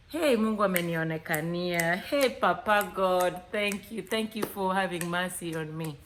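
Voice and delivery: mock grateful praise. Woman thanking God over profile.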